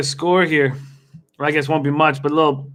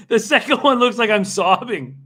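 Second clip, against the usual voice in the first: laughing; 5 semitones higher than usual. Real, not acted. Laughing over his own photos.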